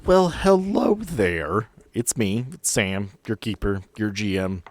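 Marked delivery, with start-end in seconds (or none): none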